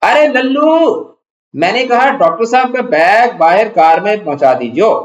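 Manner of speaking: high, loud call to the servant across the house; calling out loudly. Acted. Wife calls loudly for the servant Lallu, a high loud call. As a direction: shout it out to summon Lallu. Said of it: "اونچی آواز سے پکار کر".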